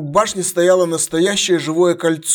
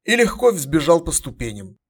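usual speaking voice

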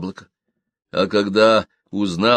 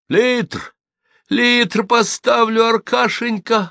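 high, slow, delighted voice; joyful promise; 14 semitones higher, 3 dB louder, much slower than usual. A narrator's reading. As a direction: promise it with glee. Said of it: "радостно заверила Наденька". (радостно, высоким голосом)

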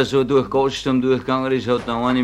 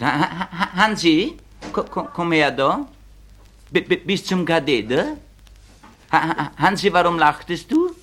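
put-on higher, stammering schoolteacher calling a boy forward; teacher voice, a bit higher; stuttering teacher; 4 semitones higher than usual. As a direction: play a stammering teacher summoning Hansi. Stuttering teacher scolding pupil.

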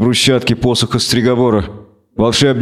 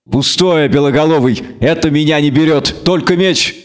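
a lightly raised, mocking young woman's voice; defiant Renfri; 3 semitones higher than usual. Renfri mocks Geralt's spell, lightly voiced defiance. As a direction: laugh it off, dare him.

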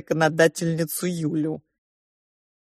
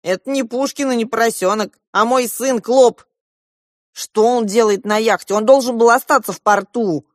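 rising, louder agitated uncle; agitated outburst; 4 semitones higher, 6 dB louder than usual. A narrator's reading. Uncle Yura realising his son is on the yacht, agitated and loud. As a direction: build from puzzled to indignant.

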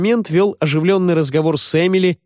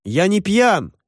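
mild mock wail; 8 semitones higher, slower than usual. A narrator's reading. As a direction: protest in a high yelp. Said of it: "завопил жирный парень". (высокий протестующий вопль вполсилы)

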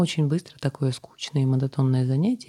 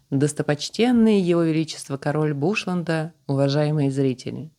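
booming orator; 2 semitones higher than usual. Acted. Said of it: "громогласно заявил вельможа".

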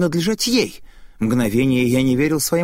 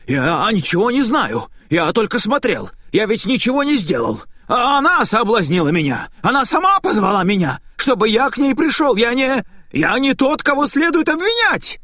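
panicked excuses; 8 semitones higher than usual. Acted. Terrified Naita denies guilt to the enraged spirit. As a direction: babble excuses in rising panic. Naita begs, blaming the woman.

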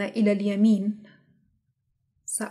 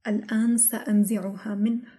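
ordinary delivery

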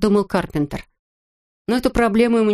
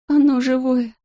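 sobbing in horror; 7 semitones higher than usual. A narrator's reading. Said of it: "что-то вроде всхлипа".

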